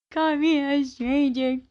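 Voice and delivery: hammed-up fake sob, high and slow; fake-cry the words like a wounded friend. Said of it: "How's my acting? How's my crying?".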